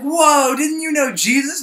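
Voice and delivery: startled, spotting a celebrity; surprised woman. Retold or imitated. A woman in the park recognizing Peter, high and surprised.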